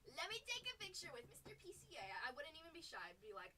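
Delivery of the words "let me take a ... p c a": excited fan. Pretend. Fan asking for a photo.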